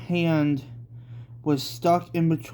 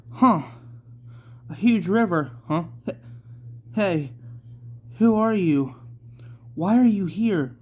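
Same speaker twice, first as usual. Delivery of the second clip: startled challenge; 4 semitones higher than usual. Acted. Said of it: "said Yukino".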